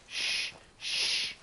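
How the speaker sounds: voiceless shh; hushing. Real, not acted. Shushing himself while sneaking up on a target. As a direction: hush yourself while sneaking.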